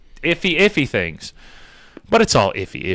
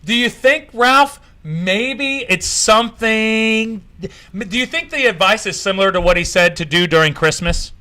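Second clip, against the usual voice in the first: mock naive; 3 semitones higher than usual. Real, not acted. Scene: mocking Fauci's repeat advice, faux-innocent. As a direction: play dumb to mock the advice. Mock-dumb sarcastic questioning.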